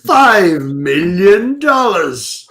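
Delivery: very slow, savoured ransom demand; slow villain demand. Pretend. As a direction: drag out the sum like a movie villain.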